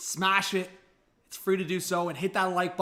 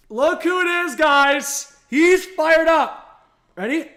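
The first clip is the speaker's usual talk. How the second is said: high, loud, slow gushing; excited dog praise; 8 semitones higher, 8 dB louder, much slower than usual. Real, not acted. Streamer showing his dog to viewers, loud high excitement. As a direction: gush over the dog to the chat.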